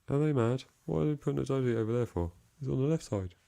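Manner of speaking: high, fast posh viewer voice. Retold or imitated. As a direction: play a snooty posh commenter. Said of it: "That was a quite a posh voice".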